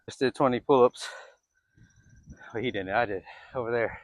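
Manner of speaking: panting after the chase; winded, catching breath. Real, not acted. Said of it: "I'm out of breath".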